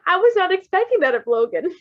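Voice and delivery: high, laughing disbelief. Real, not acted. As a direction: speak through giggles.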